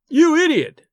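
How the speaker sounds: roaring. A narrator's reading. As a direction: bellow it in rage. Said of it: "I roared".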